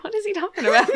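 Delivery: high, laughing puzzled question; retold confusion. Cohost retelling her confusion at the scene, laughing bafflement. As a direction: act baffled while cracking up. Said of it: "I was real confused".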